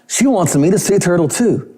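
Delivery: a hint of an excited teen girl; imitating a singer. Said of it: "I'm like".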